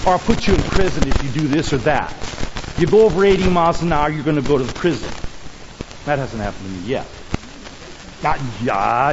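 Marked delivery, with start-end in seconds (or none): 0.1-5.1 mock scold of a naughty boy. Preacher imitating harsh law scolding a child. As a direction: wag a finger at a bad boy. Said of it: "we think of laws as this thing is".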